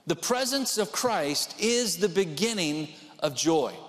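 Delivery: slow, emphatic preaching line; preached emphatic repeat. Shown as a demonstration. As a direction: drive the point home slowly. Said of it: "repeated for emphasis".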